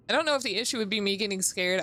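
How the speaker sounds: ordinary talk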